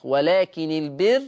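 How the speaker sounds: البر with a light ra and damma; tajweed light ra in البر; thin ra with damma. Shown as a demonstration. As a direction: recite ولكن البر, ra thin, ending on u. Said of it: "ويضم أيضًا الراء".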